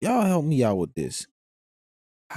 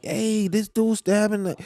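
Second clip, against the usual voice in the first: mock scream; 9 semitones higher than usual. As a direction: imitate a bystander raising the alarm. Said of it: "ain't nobody screaming like".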